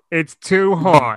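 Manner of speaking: high, slow whiny voice; ditzy woman voice. Acted. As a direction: whine it slowly. Voicing the woman.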